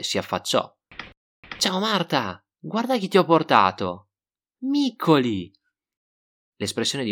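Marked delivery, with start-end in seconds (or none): 1.6-5.5 chiamata entusiasta e acuta; excited call. Acted. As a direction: call up to her window, thrilled. Gualtiero calls up to window. (chiamata eccitata verso la finestra)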